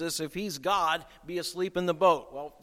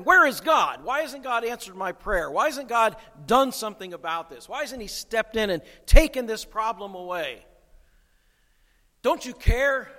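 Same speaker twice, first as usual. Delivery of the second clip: raised, higher voice of a desperate believer; anguished pleading; 5 semitones higher, 6 dB louder than usual. Retold or imitated. Believer in the storm crying to God, raised and pleading. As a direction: cry out the doubts to God, pleading. Preacher voicing desperate doubters.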